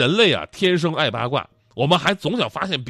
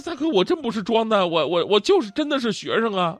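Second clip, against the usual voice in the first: higher, stammering mock protest; flustered student defending himself; protesting innocence; 6 semitones higher than usual. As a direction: plead that you are telling the truth.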